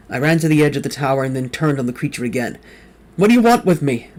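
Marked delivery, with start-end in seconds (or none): 3.1-4.1 high, loud furious demand. A narrator's reading. Turning on the creature again, loud demand. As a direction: insist on an answer, shouting. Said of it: "I demanded".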